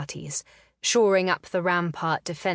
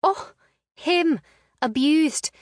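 high, louder mocking scoff; scornful scoff, pitched up high and louder; snorting scorn; 10 semitones higher, 6 dB louder, slower than usual. A narrator's reading. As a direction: sneer the words back at him. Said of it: "she snorted".

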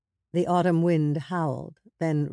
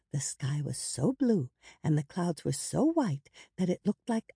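bedtime storytelling; 3 semitones higher than usual. A narrator's reading. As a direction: spin a gentle story for a child. Kara tells bedtime story.

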